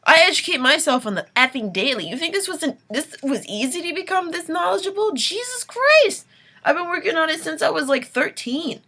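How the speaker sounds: loud, heated rant at allies; angry rant. Real, not acted. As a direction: let the frustration boil over. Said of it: "too late to be getting this angry".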